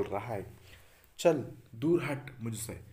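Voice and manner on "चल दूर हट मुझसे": loud, slow "चल दूर हट मुझसे" with "दूर" hit hard; angry shout. Acted. The telephone, driving the mobile away, loud and slow. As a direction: bark "चल दूर हट मुझसे" slowly to drive him off.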